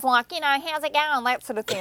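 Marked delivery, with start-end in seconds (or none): 0.6-1.2 high, broad Australian greeting; old Australian accent. Retold or imitated. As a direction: imitate a strong Australian twang. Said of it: "I hear a bit of".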